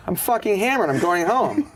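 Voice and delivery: high, loud announcement; mock drunk boast; drunk declaration. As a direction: proclaim it drunk. Drunk Nick to Norm.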